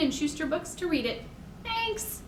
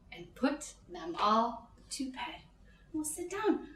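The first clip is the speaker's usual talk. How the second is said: hushed settling; 2 semitones lower, 11 dB quieter than usual. Acted. Librarian calming kids after wiggling, hushed. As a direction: bring the energy right down.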